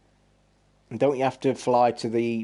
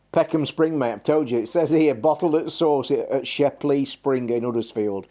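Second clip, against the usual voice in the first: mock market trader; 3 semitones higher, 4 dB louder than usual. Quoting a TV water scam.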